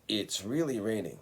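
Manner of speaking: It's really raining said slowly, really stressed; slow clear repeat model; slow model sentence. Shown as a demonstration. Teacher repeating the model slowly for learners. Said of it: "please listen and repeat after me".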